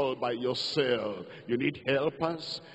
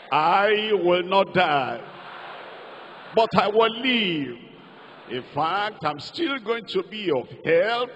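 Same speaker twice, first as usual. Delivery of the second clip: loud declaration; 3 semitones higher, 5 dB louder than usual. Acted. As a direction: proclaim it from the pulpit. Preacher declaring a confession of faith.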